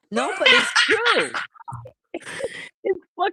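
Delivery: high, loud, put-on New York voice; mock New York accent. Woman mocking her own accent for the stream, loud New York accent. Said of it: "making fun of my New York accent".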